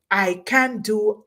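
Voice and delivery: slow, deliberate can-do declaration; can-do attitude. Acted. Speaker urging listeners to approach each task, can-do attitude. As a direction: say it slowly with mild conviction. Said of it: "attitude and spirit".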